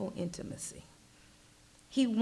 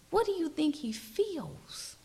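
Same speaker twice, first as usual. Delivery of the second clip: higher, unvoiced hushed ask; higher whispered question; 8 semitones higher than usual. Preacher asking listeners what God feels, whispered. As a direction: pose it gently in a raised whisper.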